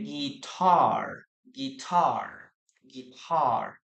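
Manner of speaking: "guitar" repeated slowly, gi-TAR with a falling end; stress on second syllable. Shown as a demonstration. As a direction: drill "guitar" three times, hitting TAR. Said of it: "this is the stressed syllable".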